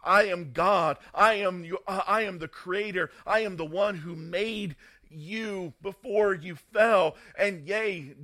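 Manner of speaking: loud, forceful preacher voicing divine authority; acted thundering rebuke; emphatic command. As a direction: hammer out each declaration, building to the casting out. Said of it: "He emphatically stated".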